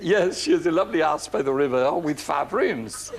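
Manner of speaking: lightly imitated accented hairdresser; René's foreign-accented voice. Hairdresser explaining to the princess, imitated foreign accent. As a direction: innocent accented reply, playfully imitated. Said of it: "And he said".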